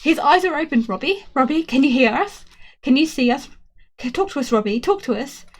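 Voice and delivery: high, loud eager calls; excited pleading. A narrator's reading. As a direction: urge him to answer, overjoyed. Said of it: "they go bananas".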